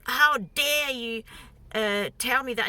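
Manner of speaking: slow, emphatic mock indignation; retold outrage. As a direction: imitate his rage, leaning on the opening words. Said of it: "he was so enraged".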